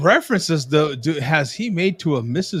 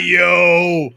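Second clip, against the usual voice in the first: loud yo; 5 dB louder than usual. Retold or imitated. Imitating a guy after a burp.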